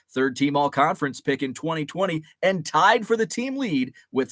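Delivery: steady broadcaster read; news voice. Shown as a demonstration. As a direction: read it like a radio sports announcer. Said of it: "This is my news voice".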